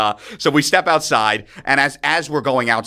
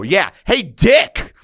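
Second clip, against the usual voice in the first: higher, louder mock heckle; acted calling out; 6 semitones higher, 4 dB louder, much slower than usual. Hammered student calling after a frat brother, mock heckling. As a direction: punch out the last word.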